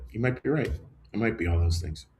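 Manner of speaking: soft, plain acceptance; mean it, no defensiveness; humble, quiet admission; sincere, no attitude. Shown as a demonstration. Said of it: "Not with an attitude, just like".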